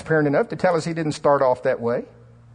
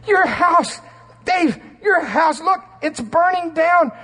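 higher, louder, slowed panicked yell; frantic shout; 5 dB louder, slower than usual. Retold or imitated. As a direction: yell at Dave that his house is burning. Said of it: "And I'm going".

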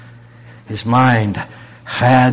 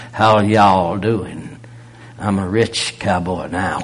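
Oklahoma cowboy drawl; 3 semitones lower, slower than usual. Retold or imitated. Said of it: "he talked like an old gunman when he was in Oklahoma".

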